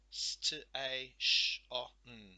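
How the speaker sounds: S, t, a, sh, o, n sounded quickly and loud; segmenting sounds. Shown as a demonstration. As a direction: blend the sounds in a quick run. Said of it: "There are our sounds".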